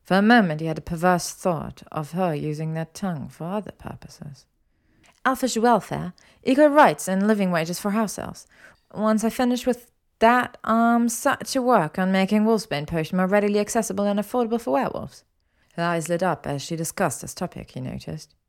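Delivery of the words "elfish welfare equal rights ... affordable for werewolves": higher, animated woman's voice; earnest, eager Hermione. Acted. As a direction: list your causes with eager conviction. Voices Hermione on her cause.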